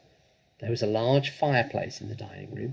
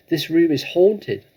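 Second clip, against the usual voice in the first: eerie warning; 6 semitones higher, 9 dB louder, slower than usual. Acted. Matilda scaring family.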